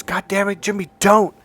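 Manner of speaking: high-pitched imitation of a friend's warning; mock yell to make someone stop; retold yell. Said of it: "Marlon was yelling".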